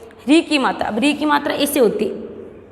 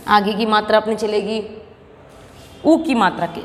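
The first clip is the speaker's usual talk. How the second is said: usual speaking voice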